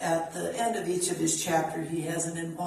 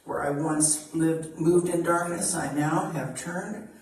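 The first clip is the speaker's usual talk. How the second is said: measured devotional reading voice; spiritual reading. Acted. Reader offering an embodiment to the congregation, devotional reading. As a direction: read it like a blessing, steady and earnest. Reads a spiritual text aloud.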